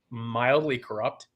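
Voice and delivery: slow, dry sarcastic understatement; deliberately understated, slowly. Real, not acted. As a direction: draw it out with a touch of sarcasm. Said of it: "That's sarcasm".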